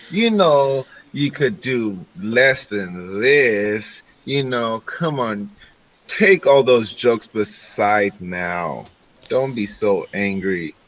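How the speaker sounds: lightly voiced elf, slow coaxing; coaxing charmer. Elf sweet-talking an angry shopkeeper, coaxing. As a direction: draw it out, low and cajoling.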